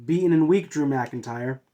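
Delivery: mock-protest as an aggrieved wrestler; imitating someone griping at the culprit; complaining. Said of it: "Drew complains and says".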